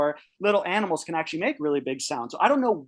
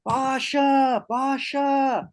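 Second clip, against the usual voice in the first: shouting a dog's name at night; calling a dog; 8 semitones higher, much slower than usual. Retold or imitated. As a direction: call out for the dog across the hillside. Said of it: "start calling for the dog".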